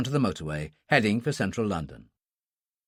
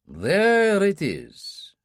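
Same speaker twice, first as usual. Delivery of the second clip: Russian man voice; 7 semitones higher, much slower than usual. Acted. The Russian concluding.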